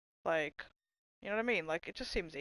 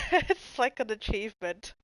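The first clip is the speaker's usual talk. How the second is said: louder, through laughter; giggling at the absurdity; laughing it out; 3 semitones higher, 5 dB louder than usual. Real, not acted. Laughing at the awkward praise.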